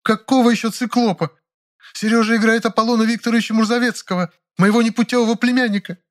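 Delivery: put-on high, haughty older actress, irritated; voiced Ranevskaya. A narrator's reading. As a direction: lecture him with theatrical scorn. Ranevskaya figure voice. (высокий надменный голос Раневской, раздражённо)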